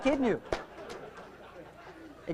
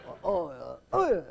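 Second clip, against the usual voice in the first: student's helpless noises; 4 semitones lower, slower than usual.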